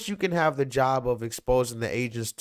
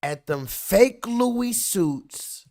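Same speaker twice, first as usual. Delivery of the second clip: heated rant; 6 semitones higher than usual. Real, not acted. Angry rant answering the hype.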